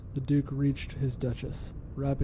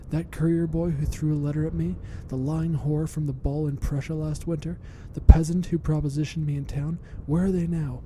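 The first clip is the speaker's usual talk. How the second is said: louder and louder, spitting each accusation; venomous hiss; 2 semitones higher, 5 dB louder than usual. Acted. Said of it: "she hissed".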